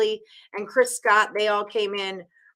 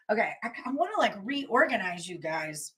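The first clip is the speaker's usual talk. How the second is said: soft unvoiced whisper; 7 dB quieter than usual. Real, not acted. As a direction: whisper it to yourself. Whispered aside while organizing.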